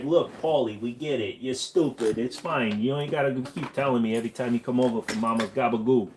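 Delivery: put-on a New York accent, lightly done. Telling Paulie off in a relaxed New York accent. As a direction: lecture Paulie the way a New Yorker would. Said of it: "That's a solid New York accent".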